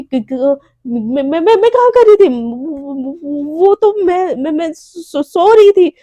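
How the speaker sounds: caught-out stammering denial; i was sleeping, blurted out in a panic; flustered stammer. Acted. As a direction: stumble over every word, panicking. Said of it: "एकदम हड़बड़ा जाती है".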